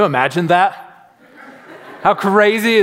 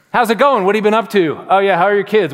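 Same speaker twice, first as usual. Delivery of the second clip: higher-pitched, feigned familiarity; fishing for clues; 4 semitones higher, 3 dB louder, faster than usual. Acted. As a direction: chat brightly to cover not knowing the caller. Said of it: "you're just, like, fishing".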